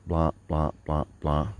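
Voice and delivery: normal talking voice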